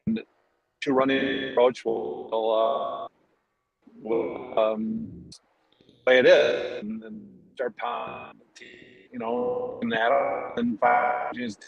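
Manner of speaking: glitchy robotic headset audio; breaking up like a robot. Real, not acted. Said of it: "You sound kinda like a robot".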